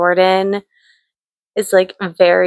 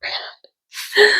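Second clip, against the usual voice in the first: laughing mock mad; 8 semitones higher, much slower than usual. Real, not acted. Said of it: "I'm so mad".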